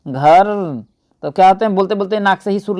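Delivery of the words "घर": घर pushed through the nose, lower; घर voiced through the nose; nasal demo. Shown as a demonstration. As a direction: say घर nasally like a student. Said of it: "नाक में ही से बोलते हैं".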